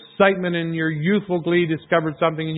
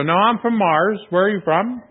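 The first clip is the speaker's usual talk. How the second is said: mock sarcastic comeback, higher; sarcastic retort; 4 semitones higher than usual. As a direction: tease back with a cheeky higher voice. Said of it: "I wanted to go".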